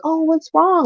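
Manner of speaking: high, cooing mock sympathy; imitated sentimental concern. People getting sentimental with a child, imitated concern. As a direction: put on a fussing, concerned voice. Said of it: "would try to get sentimental".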